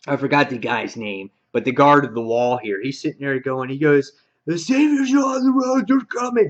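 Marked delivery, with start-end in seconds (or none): 4.5-6.5 high, loud cry of alarm; raised-pitch mock panic shout; freaking-out lookout. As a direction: imitate a guard calling out a panicked warning. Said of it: "So he's freaking out".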